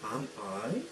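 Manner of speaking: "Am I?" with a rising question tune. Shown as a demonstration. Teacher shows students how a question sounds. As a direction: ask "Am I?" as a real question, going up. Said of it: "the tone of the voice is going to change".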